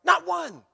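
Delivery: "Not" thrown out high and loud; emphasis on not. Shown as a demonstration. Pastor drives the point home, stressing not. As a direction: punch "Not" hard. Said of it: "emphasis added by pastor".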